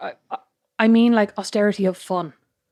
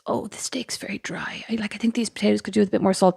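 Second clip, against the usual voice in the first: hushed muttered complaint at the table; a mother grumbling under her breath about dinner; mom's quiet complaint; 5 dB quieter than usual. Retold or imitated. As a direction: whisper it so the waiter can't hear. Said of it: "Mom turns around and goes".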